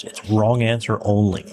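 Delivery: wrong answer only, spelled out slowly; slow it down so everyone catches it; slow, clear repeat. Shown as a demonstration. Host repeating the question slowly for listeners who missed it. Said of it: "'cause Eric kinda spun over that fast".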